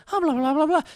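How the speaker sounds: high-pitched hammed-up exclamation; mock surprise. Reviewer mimicking a full-cast audiobook actor, exclaiming in mock surprise. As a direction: squeal out a parody of a surprised actor. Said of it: "He exclaimed in surprise".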